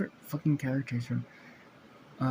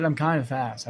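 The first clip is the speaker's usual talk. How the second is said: slightly firmer, more projected repeat; a touch louder, assertive; speaking up; 3 dB louder than usual. Acted. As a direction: repeat it so it carries. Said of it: "Boy, speak up".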